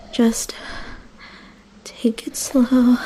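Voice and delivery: slow, hushed whisper. A narrator's reading. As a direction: breathe it out slowly, hushed. Whispering to calm the beast.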